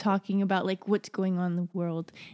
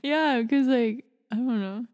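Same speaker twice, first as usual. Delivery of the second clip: put-on baby talk; 3 semitones higher than usual. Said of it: "Talking in baby talk".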